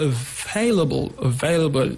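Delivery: available, stressed on the second syllable. Shown as a demonstration. Teacher showing where English word stress falls, second-syllable stress. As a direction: say available leaning on VAIL. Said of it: "On the second syllable".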